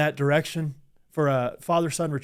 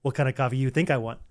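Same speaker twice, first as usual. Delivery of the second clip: impersonating Leo; 3 semitones lower, 4 dB quieter than usual. Retold or imitated. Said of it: "good impersonation of Leo doing a character".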